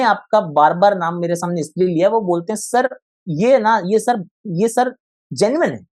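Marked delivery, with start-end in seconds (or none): 2.6-5.9 higher-pitched imitation of eager students; students' voice. Students vouching to their sir for a channel, imitated in higher pitch. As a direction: mimic pupils vouching to their teacher, pitched up. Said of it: "मेरे जो students हैं".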